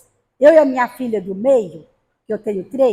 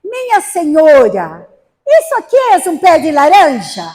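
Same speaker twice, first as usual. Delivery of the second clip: put-on asking the old lady; 3 semitones higher, 7 dB louder than usual. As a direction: call out politely to the old lady. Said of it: "falei assim pra ela".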